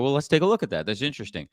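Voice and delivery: even, curious challenge, softening at the end; calm challenge. Shown as a demonstration. Consultant pulling up a slide for the employer, calm and curious. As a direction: lead them gently to the slide. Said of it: "I go to and go".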